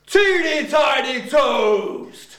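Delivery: drawn-out slow voice; slow funny voice. Shown as a demonstration. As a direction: stretch it out very slowly. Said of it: "Here we go".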